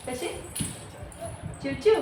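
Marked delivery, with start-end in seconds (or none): 1.6-1.9 playful little chirp; bird chirp imitation. Shown as a demonstration. Mother repeating the bird's call for her toddler, light chirp. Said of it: "चिऊ कशी ओरडते".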